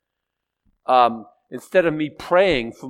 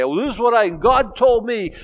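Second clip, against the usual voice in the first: higher, slowing, mock authoritative; heavy-handed pronouncement; 10 semitones higher, 5 dB louder than usual. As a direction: lay down the law as if God spoke. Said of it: "come in heavy-handed and say".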